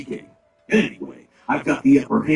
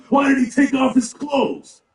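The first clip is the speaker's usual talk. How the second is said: baffled outburst; 14 semitones higher, 5 dB louder than usual. Acted. Companion baffled by stripping Khajiit.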